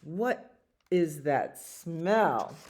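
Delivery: slow, spaced-out question; somebody noticing a stink. Acted. Somebody in the story smells skunk, slow puzzled question. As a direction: draw out each word, falling at the end. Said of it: "And somebody says".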